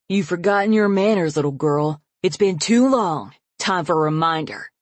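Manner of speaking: father threatening to punish his daughter; menacing. Acted. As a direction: savour the threat. Father about to beat her.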